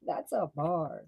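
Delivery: slow, laughing \"That's a bar.\"; laughing repeat. Real, not acted. Reader repeating the line to viewers, laughing. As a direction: savor it slowly through a laugh.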